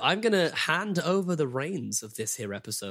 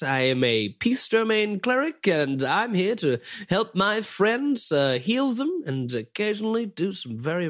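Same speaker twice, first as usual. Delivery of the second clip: new Casper voice. Acted. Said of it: "how I pitched Casper Birthright".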